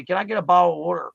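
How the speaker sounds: "bottle of water" slurred, t's swallowed; Pennsylvania pronunciation. Shown as a demonstration. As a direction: run "bottle of water" together like bah'l-a-wooder. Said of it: "That's what I say".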